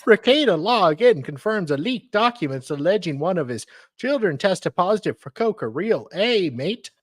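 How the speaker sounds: high, singsong fake Aussie that sounds Indian; bad Australian accent. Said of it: "it sounds a bit Indian".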